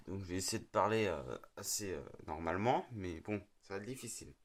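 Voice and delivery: groggy, just-woke-up voice; rough morning voice. Real, not acted. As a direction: speak through a rough morning voice. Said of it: "donc j'ai la voix pourrie".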